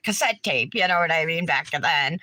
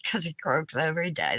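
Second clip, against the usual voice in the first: softer, lower murmur to herself; quiet repeat; 3 semitones lower, 5 dB quieter, faster than usual. Real, not acted. Repeating the riddle to herself to remember it, softer and lower. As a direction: rehearse the joke under the breath.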